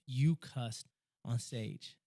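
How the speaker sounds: slow, deliberate "You cussed on stage"; serious. Retold or imitated. Retelling the tech guys insisting, serious. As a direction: spell out "You cussed on stage" slowly, word by word. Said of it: "I'm being a hundred percent serious".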